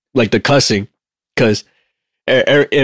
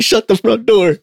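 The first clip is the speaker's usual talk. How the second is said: said like a cuss; 9 semitones higher, slower than usual. Retold or imitated. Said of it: "they'll say it like, Shut the fuck up".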